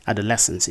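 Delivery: adolescence with the stress moved to DOL; mispronunciation. Shown as a demonstration. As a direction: say adolescence wrongly as a-DOL-escence. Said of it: "many of you have been pronouncing".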